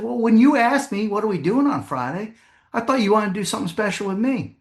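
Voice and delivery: mock wounded reproach to husband; hurt wife. Voicing hurt wife explaining herself.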